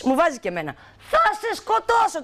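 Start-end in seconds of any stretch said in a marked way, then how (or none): 1.1-2.2 high furious threat, spat out; angry threat. Retold or imitated. She threatens the sprayer, high furious threat. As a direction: threaten him like you mean it. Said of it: "του λέω".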